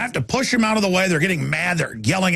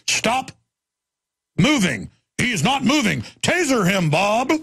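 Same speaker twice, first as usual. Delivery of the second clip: higher, mock barking cop orders; 5 semitones higher than usual. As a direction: play the dumb cop shouting. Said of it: "cop car comes".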